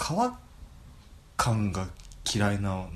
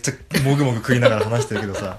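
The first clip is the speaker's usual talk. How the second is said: chewing while talking; mouth full; 7 dB louder than usual. Real, not acted. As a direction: talk through a mouthful.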